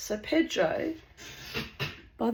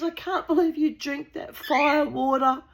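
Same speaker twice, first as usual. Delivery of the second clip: mock incredulous Gail; 9 semitones higher than usual. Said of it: "She goes".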